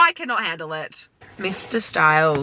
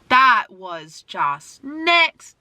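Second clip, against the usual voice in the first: drawn-out awed shout; 2 semitones higher, much slower than usual. Real, not acted. Fan reacting to a song, slow awed shout. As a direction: stretch it out in amazement.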